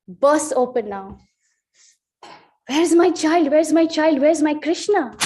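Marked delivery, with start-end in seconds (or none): 2.7-5.2 desperate cry, a bit higher and louder; father frantically calling for his lost baby; frantic father. Retold or imitated. Father searching the river for his baby, frantic cry. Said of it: "he goes so frantic".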